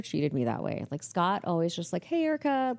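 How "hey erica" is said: high-pitched imitated hello; friendly greeting. Boss greeting the receptionist, friendly. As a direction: toss out a friendly, lifted greeting.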